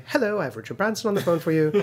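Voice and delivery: a hint of a British accent, putting a call through; British accent gal. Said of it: "some British accent gal calls me up".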